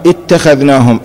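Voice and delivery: اتخذناهم opened with a short "i": ittakhadhnahum; variant recitation. Shown as a demonstration. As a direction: read اتخذناهم starting on "it-". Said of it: "إذا قرأناها".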